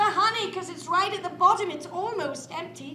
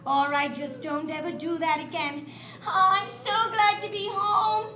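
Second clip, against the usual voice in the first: mother bear comforting her cub; soothing mother. Acted. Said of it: "And Mommy said".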